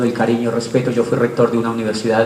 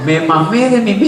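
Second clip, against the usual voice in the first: put-on higher, slow, cooing child's voice; imitating a small child; 4 semitones higher, slower than usual. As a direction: drag it out like a proud toddler. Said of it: "Y dice".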